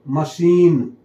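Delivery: मशीन said slowly, mə-SHEEN with a clear sh; teacher drawing out मशीन, sh not ch; sh sound for ch. Shown as a demonstration. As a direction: stretch मशीन slowly so the sh stands out. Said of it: "सीएच का उच्चारण श होता है".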